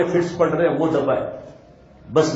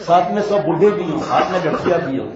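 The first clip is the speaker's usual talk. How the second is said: laughing. Real, not acted. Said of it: "laughing through the description".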